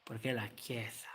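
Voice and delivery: lightly voiced pope sermon in Italian; a hint of the Pope preaching, slow in places; mild papal address to brothers and sisters; Pope impression. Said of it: "So the Pop goes like".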